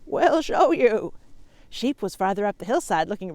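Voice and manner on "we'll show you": very slow, louder goat drawl. Acted. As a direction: lean on each word like a goat. Goats offer help.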